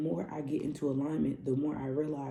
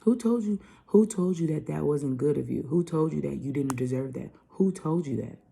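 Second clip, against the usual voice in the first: loud emphatic rhetorical questions; preaching questions; 6 dB louder than usual. Real, not acted. Vlogger preaching to viewers with loud rhetorical questions. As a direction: press each question at them. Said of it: "continues preaching questions".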